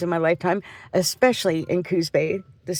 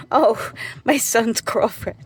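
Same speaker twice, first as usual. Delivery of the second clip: higher and slower, remembering with an oh; sudden recall; 4 semitones higher, slower than usual. Real, not acted. Mother suddenly recalls her son's girlfriend, drawn-out oh. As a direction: catch the thought as it pops up.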